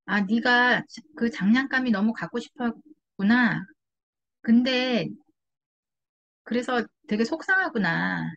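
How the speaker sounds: put-on slow, gentle comforting of a child; soothing empathy. Shown as a demonstration. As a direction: soothe the upset child, slowly. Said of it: "아이의 그 감정을 조금 어루만져 주세요". (아이를 달래듯 천천히 공감하며)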